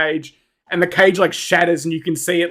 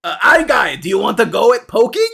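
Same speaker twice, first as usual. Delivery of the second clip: goblin voice. Acted. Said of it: "the goblin turns to Andy and says".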